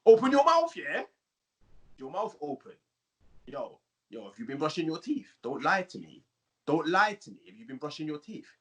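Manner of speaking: a touch of roadman, bursting in loud then easing off; roadman dentist. Acted. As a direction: question the patient as a suspicious roadman dentist. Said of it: "you'd have to change your accent".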